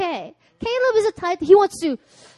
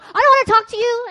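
mock sulky refusal; 9 semitones higher, 4 dB louder, faster than usual. Retelling her angry refusal.

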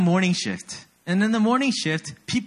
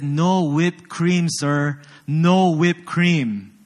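slow, louder, each word punched; retold angry customer; 3 dB louder, much slower than usual. Barista retells the rude customer's demand, slow mock yell. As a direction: play the customer spelling it out with a mild mock yell. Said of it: "this man started yelling at me".

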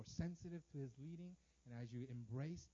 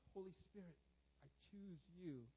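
quiet prayer; 10 dB quieter than usual. Shown as a demonstration. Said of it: "Like Captain Planet".

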